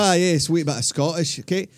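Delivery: put-on loose, jokey Scottish accent. Host introduces golf pro to wife's dismay, dubious Scottish accent. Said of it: "Okay, the accent is".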